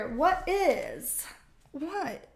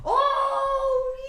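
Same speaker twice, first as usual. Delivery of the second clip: startled shout; 12 semitones higher than usual. Real, not acted. Startled mid-reading by something, high shout. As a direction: jump at a shock.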